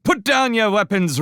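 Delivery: high, loud demand; shouted order. Acted. Constance ordering the rats to disarm, loud shout. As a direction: bark the order down at them. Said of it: "Constance shouted".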